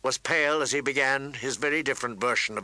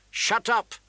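high-pitched angry retort; bratty prince's shout; yelling back; 9 semitones higher, 4 dB louder than usual. A narrator's reading. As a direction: yell back at her. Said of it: "the prince yelled back".

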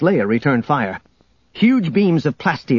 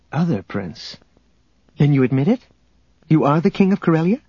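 incredulous, rising; 3 semitones higher than usual. Acted. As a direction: catch him out, faster and higher. Leia confronts Han.

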